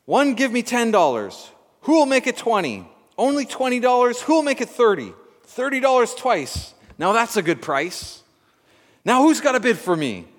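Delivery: loud, high, fast auction calling; auctioneer voice. A narrator's reading. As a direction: rattle off bids like an auctioneer. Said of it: "The auctioneer cried out".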